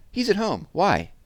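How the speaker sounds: very high, loud puzzled reply; answer, then demand why; puzzled girl. Acted. Jessie answering Megan, high and baffled.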